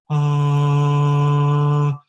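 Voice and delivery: long, loud sustained breathy "ah"; really breathy "ah". Shown as a demonstration. Coach leading singers through the spectrum, really breathy held "ah". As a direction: hold an airy "ah" on one pitch. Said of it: "make a really breathy sound".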